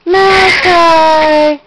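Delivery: loud coaxing call. Real, not acted. Calling baby loudly.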